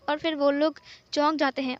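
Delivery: ordinary delivery, nothing marked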